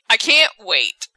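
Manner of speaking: mildly excited, drawn-out anticipation; retold relish, stretched out; imitated eagerness. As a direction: savor it slowly, like an eager husband. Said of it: "he's so excited".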